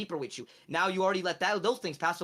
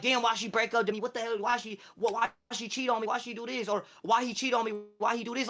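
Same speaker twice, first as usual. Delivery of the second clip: higher, whining mock heartbreak; mock heartbroken whine; 4 semitones higher than usual. Mocking a heartbroken listener, a whiny lament. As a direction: play the crying dumped ex, lightly. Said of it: "being like".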